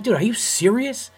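high-pitched retold disbelief; can't believe he means it; incredulous. Comedian answering an employee's threat, incredulous.

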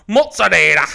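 put-on sudden loud Italian accent on "mozzarella"; Giada De Laurentiis. Mocking co-host as a TV cook, hammed-up Italian accent. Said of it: "Giada doing an Italian accent".

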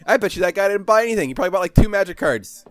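high, loud indignant rant. Real, not acted. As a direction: vent about the store, fired up. Ranting indignantly about the store.

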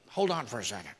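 low, hushed stalling; flustered Pharisees. Retold or imitated. Pharisees caught in Jesus's trap, low and hushed. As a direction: stall nervously under the breath.

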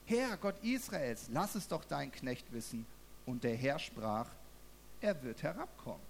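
ruhig vorgelesene Schriftlesung; Bibeltext vorlesen. Acted. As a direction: lies die Verse gemessen vor. Reads Bible passage aloud. (ruhige Bibellesung)

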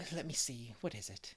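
low, soft aside to oneself; thinking aloud. A narrator's reading. Miss Lavender tries to recall Charlotta's real name, musing quietly. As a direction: drop the voice while searching the memory.

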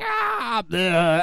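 high "ah", then a blurted "bleh"; imitated scream and retch. Telling Dino about the maternity ward, mock scream and retch. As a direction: mimic someone screaming, then throwing up. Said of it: "screaming and throwing up".

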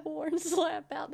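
slow Southern drawl; Worn slap out, stretched slowly; Southern saying. Shown as a demonstration. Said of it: "That was very good".

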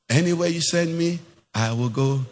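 mock pious vow. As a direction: imitate a devout believer pledging obedience. Mimics believer's pious vow to God.

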